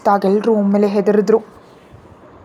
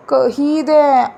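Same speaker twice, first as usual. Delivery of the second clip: very slow, higher pouting whine; sulky child; 4 semitones higher, much slower than usual. Acted. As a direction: stretch it out like a sulking boy. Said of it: "ಮುಖ ಸಣ್ಣದ್ ಮಾಡ್ಕೊಂಡ".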